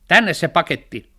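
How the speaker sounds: high, loud demand; shout. A narrator's reading. Cat shouting at the postman for the parcel. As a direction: yell it, wanting the parcel now. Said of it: "Kissa huusi".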